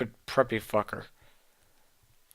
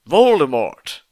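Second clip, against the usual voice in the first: much louder, higher, big hammed-up announcement; dramatic reveal; 4 semitones higher, 10 dB louder than usual. Narrator revealing the villain with a loud hammed-up gasp. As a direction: boom out the villain's name.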